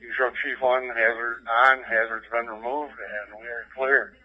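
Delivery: clipped radio report over a scanner; terse radio update. Real, not acted. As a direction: read it like a crackly two-way radio. Chief reporting hazard cleared.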